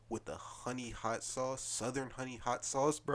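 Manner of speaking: drawn-out, emotional near-cry; slow down as if choking up over food; about to cry. Real, not acted. Raving to friends about honey hot sauce, close to tears. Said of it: "He sound like he about to cry".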